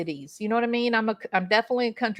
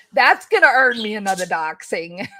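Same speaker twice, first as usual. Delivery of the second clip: laughing; 6 dB louder than usual. Real, not acted. Joking about being doxed.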